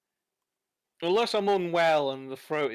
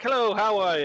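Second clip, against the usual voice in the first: lilting Irish greeting, high and loud; Irish accent; 5 semitones higher, 5 dB louder than usual. Retold or imitated. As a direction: call a mock cheery hello in an Irish accent. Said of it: "in an Irish accent".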